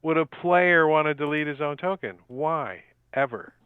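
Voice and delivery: dry, mocking disbelief; mild sarcasm. Real, not acted. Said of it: "Mild sarcasm".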